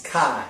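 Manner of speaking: "chi" said as "kai", with a long I; Greek chi with K. Shown as a demonstration. Teacher naming the Greek letter, "chi" pronounced "kai". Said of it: "It's pronounced chi".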